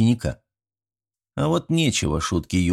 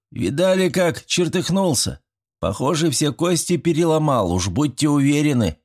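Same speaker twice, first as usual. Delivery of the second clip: put-on a higher, assured boyish voice; know-it-all boy; 7 semitones higher than usual. A narrator's reading. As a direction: say it like an expert. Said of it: "авторитетно заявил Швец".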